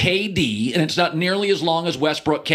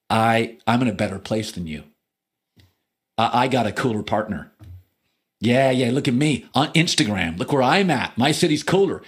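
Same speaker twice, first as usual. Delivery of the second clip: much lower, mock-smug brag; smug bragging Kyrie; 8 semitones lower than usual. Sports host voicing Kyrie bragging to LeBron, low mock-smug. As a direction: lord it over the old partner, low and smug. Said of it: "what Kyrie Irving is saying when he's saying this is".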